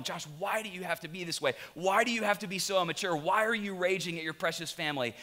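acted scolding of oneself; exasperated self-reproach. Man internally questioning his raging at family, exasperated self-reproach. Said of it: "internally I'm going".

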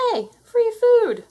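gleeful greedy yelp; excited shout. Acted. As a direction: spot the feast and cheer. Cat arrives with settlers, sees food.

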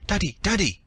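put-on high screaming little girl; child's shrill scream. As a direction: scream for daddy like a terrified child. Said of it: "a child's shrill scream".

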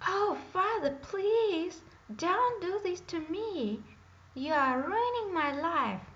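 high, loud, pleading wail; whining princess. A narrator's reading. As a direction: beg daddy like a spoiled teen. Princess begs her father.

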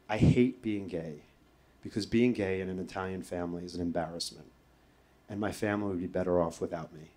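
soft, low, understated sorrow; subdued tearful confession. Retold or imitated. Crying patient confiding in ambulance nurse, subdued. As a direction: confess it quietly, with a touch of sadness. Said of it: "I just started crying".

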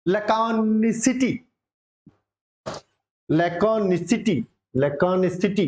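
लैकोनिसिटी drawn out slowly, syllable by syllable; pronunciation demo. Shown as a demonstration. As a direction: model लैकोनिसिटी slowly for students to repeat. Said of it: "मेरे साथ बोलना है बेटे".

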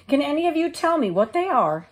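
high, bright hen voice; little red hen. Acted. The hen asking neighbours about seeds, in a high voice.

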